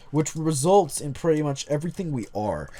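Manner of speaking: lightly voiced jock reading aloud; a hint of jock in the narration. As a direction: put on a touch of jock swagger. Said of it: "read this in the jock voice".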